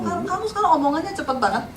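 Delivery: cepat, sedikit lebih pelan suaranya; meniru orang Solo. Retold or imitated. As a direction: menirukan teman Solo yang heran, cepat. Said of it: "kalau ketemu orang Solo". (orang Solo berkomentar, ditirukan cepat)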